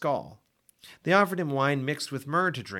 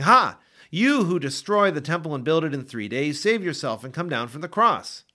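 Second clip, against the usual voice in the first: louder mocking scorn, Ha barked out; jeering taunt; 3 semitones higher, 5 dB louder than usual. Passersby jeering at Jesus on the cross, loud scorn.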